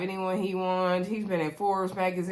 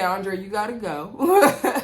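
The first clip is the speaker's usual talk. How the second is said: slow, louder line tipping into laughter; amused retelling; 5 dB louder, slower than usual. Retold or imitated. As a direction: draw out the retold order, then crack up. Laughs retelling production's order.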